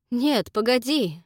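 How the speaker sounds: slow, loud call to wait; a loud, pleading halt; urgent plea. Acted. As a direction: stop her in urgency. Jack pleads with Dakota.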